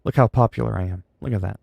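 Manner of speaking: dry sarcastic self-praise; mock-boast about your own popularity; understated sarcasm. Real, not acted. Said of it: "I'm being sarcastic".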